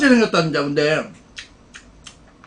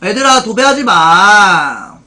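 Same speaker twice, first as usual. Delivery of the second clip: slow scolding; 2 semitones lower, 4 dB louder, slower than usual. Real, not acted. Scolding chat for spamming.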